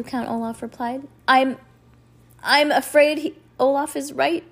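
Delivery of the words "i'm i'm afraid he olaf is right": higher, mildly tearful voice; through tears. A narrator's reading. Judge admitting Olaf is right, tearfully. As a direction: pitch it up, as if holding back tears. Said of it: "through her tears".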